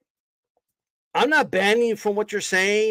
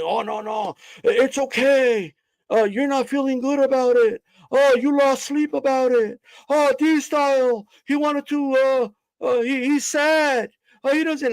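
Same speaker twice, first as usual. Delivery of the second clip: mock sympathy; 4 semitones higher than usual. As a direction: pretend to pity him, sarcastically. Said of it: "you wanna make it seem like".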